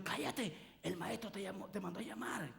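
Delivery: hushing crowd. Acted. Crowd telling the blind man the master calls, hushed. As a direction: shush him, then tell him softly. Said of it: "Le dijeron".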